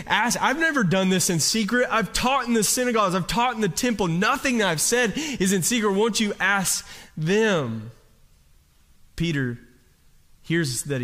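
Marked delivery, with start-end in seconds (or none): 0.1-7.9 higher, pressing defense of his teaching; Jesus' firm answer. Retold or imitated. Jesus answering the high priest at the trial, firm and higher. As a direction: insist you spoke openly, slowing at the end.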